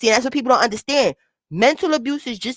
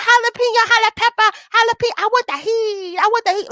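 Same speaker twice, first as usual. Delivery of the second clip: very high, screechy mimicry; mocking high-pitched voice. Streamer mocking a woman's high voice, exaggerated squeal. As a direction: squeal it in a geeky, screechy put-on voice. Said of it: "Fuck the high-pitched voice".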